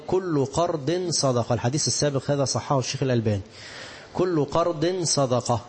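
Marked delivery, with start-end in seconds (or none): 0.1-1.5 كل قرض صدقة drawn out slowly with weight on قرض; slow solemn recital, قرض stressed; slow emphatic recitation. Shown as a demonstration. Reciting the hadith text. 4.1-5.6 كل قرض صدقة drawn out slowly with weight on قرض; slow solemn recital, قرض stressed; slow emphatic recitation. Shown as a demonstration. Repeating the hadith for emphasis.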